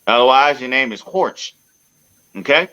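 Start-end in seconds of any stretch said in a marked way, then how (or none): 0.6-1.5 "Horch" said as one clipped syllable, hard h; Horch mispronounced. Shown as a demonstration. Mocking a missing accent mark, says Horch. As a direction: say "Horch" like a wrong reading. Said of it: "put that accent over the G".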